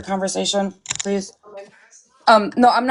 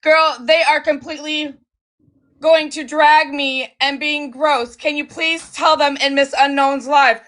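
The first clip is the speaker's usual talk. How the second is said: imitating Bougie; 4 semitones higher than usual. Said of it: "because she says".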